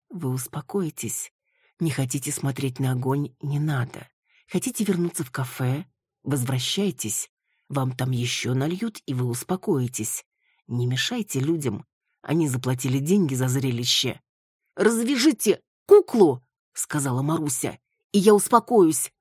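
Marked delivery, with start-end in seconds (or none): 0.1-14.2 calm her down like a patient; soothing guide. Acted. Виола calms Маруся. 14.8-16.4 higher, loud command; insist, loudly; demanding. Acted. Маруся demanding they untie the doll, loud. 18.1-19.1 higher and louder; insistent. Acted. Маруся insisting to Виола, higher and loud.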